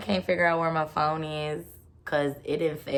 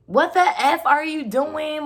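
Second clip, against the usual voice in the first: much higher, louder, slow shout; retold furious shout; 10 semitones higher, 7 dB louder than usual. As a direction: yell it as the glass breaks. Retold yelling as glass breaks.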